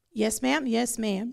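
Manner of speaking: ordinary talk, nothing marked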